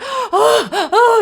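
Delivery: high gasping cries of pain; mock labor cries, pitched high; imitated screaming. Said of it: "I was screaming".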